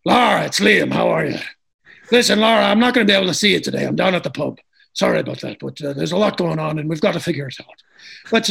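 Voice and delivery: a mild gruff phone call to a sister, barely put on; Liam Neeson impression. Calling twin sister Laura as Liam Neeson, lightly voiced. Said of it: "pretend that I'm Liam Neeson".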